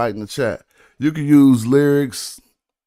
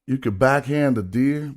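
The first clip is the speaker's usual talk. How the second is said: mocking the bar; 4 dB quieter than usual. Shown as a demonstration. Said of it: "If you said that in somebody's face".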